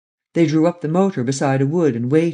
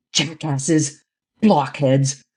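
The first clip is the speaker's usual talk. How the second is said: shouted; much slower than usual. A narrator's reading. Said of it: "shouted Lupin".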